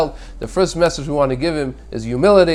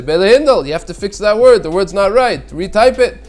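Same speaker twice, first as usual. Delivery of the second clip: sharp, raised voice correcting his wife; a bit louder and higher, scolding a little harshly; impatient correction to the wife who typed the wrong word, in a raised voice; too strong a tone; 4 semitones higher, 4 dB louder than usual. Retold or imitated. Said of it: "I say it in too strong of a tone of voice".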